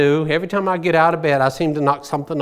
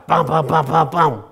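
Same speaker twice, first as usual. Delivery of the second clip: knocking sound. Retold or imitated. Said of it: "Knocking on that door".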